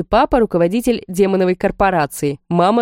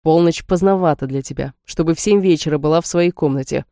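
stern order; 2 semitones lower than usual. Acted. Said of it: "Жёстким тоном отдали мне приказ".

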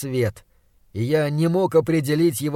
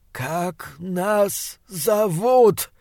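slower and higher creature demand; monster voice; 3 semitones higher, much slower than usual. Acted. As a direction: press the question, menacing and slow.

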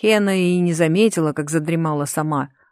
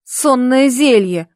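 higher, louder, slow sobbed confession; sobbing; 6 semitones higher, 5 dB louder, slower than usual. A narrator's reading. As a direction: blurt it out through a sob. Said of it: "всхлипнул парень".

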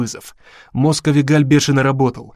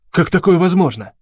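higher-pitched, astonished question; bewildered; 6 semitones higher, 4 dB louder than usual. A narrator's reading. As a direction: blurt it out, thrown off balance. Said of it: "сбитый с толку". (растерянно, изумлённо, повышенным голосом)

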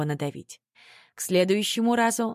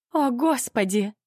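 tearful cry; 6 semitones higher, slower than usual. A narrator's reading. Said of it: "залилась слезами мама".

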